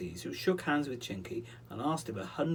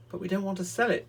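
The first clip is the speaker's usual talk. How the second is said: put-on protesting boy; 8 semitones higher, 6 dB louder, faster than usual. Peter protests.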